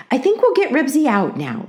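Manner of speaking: cheerful mother with good news. A narrator's reading. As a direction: say it cheerfully, pitch lifted. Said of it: "said Mother cheerfully".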